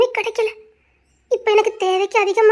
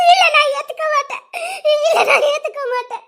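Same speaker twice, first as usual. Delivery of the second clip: higher crying no, repeated; tearful refusal; 5 semitones higher than usual. Acted. Daughter cries as she refuses her father's plea. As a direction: refuse him through sobs.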